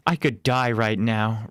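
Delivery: slow, mumbled through cake; mouth full. Acted. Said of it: "mumbles through a mouthful".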